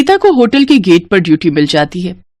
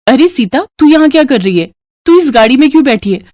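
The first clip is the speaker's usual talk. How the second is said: surprised call; 5 semitones higher than usual. Acted. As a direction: call out to a friend found in the wrong place. Asha mistakes Geeta for Sita.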